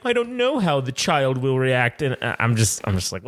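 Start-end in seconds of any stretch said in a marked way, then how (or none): 0.1-2.0 mock prim, drawn-out mother; snooty mother. Dad imitating the homeschool mother's worry, snooty. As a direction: imitate a fussy, superior parent. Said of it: "she's like".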